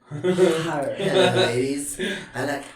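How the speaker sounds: teasing pretentious horror fan, half laughing; drawn-out mock suave introduction; mocking imitation. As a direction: mimic his odd 'hire' for horror. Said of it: "That's what I imagine when you say that".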